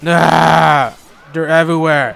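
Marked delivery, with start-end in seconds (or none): 0.1-1.0 long "aah" of dismay; loud drawn-out yell. Real, not acted. Player swarmed by zombies, loud dismayed yell. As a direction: yell out as the horde closes in.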